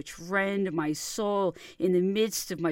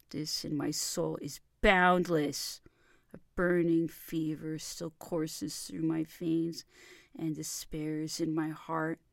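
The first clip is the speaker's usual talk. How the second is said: plain reading voice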